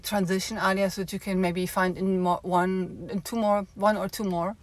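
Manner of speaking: breathless from walking; out of breath. Real, not acted. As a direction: talk while catching breath. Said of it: "I'm just out of breath".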